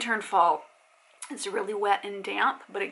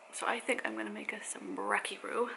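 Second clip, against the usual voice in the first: whispered; 8 dB quieter than usual. Real, not acted. Whisper aside.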